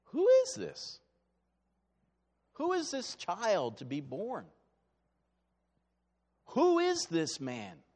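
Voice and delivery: rising in amazement, then slowing; a crowd's puzzled awe; wondering question. Retold or imitated. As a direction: ask it in astonished wonder. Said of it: "to wonder".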